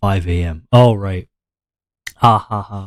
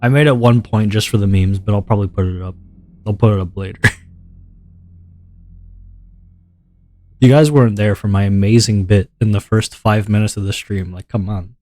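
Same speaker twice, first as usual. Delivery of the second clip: relaxed low voice. Shown as a demonstration. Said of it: "now my voice is gonna be like this".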